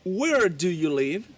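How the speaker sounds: slow, careful repetition; slow model question. Shown as a demonstration. Teacher repeating the drill sentence for students. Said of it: "¿Dónde vives tú?".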